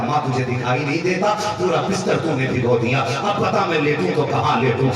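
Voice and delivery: loud, angry complaint; angry son. Retold or imitated. Son angrily scolds his mother over the wet bed. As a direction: scold her, fed up. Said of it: "गुस्सा होके कहने लगा".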